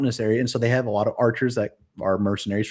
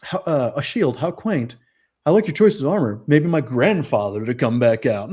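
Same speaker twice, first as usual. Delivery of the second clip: movie bad guy; 2 semitones higher than usual. Bad guy mocking William's old armor at the joust, hammed-up imitation. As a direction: imitate a condescending film villain taunting an opponent. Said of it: "the main bad guy ... he's like".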